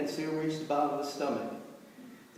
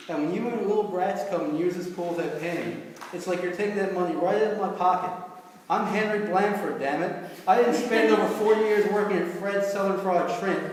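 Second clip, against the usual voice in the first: angry rant; 3 semitones higher than usual. Acted. Henry's angry rant at the tourist.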